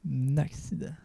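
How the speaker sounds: burp into the mic mid-question. Real, not acted. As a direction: let a burp slip through the words. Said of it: "j'ai roté dans le micro". (rot dans le micro)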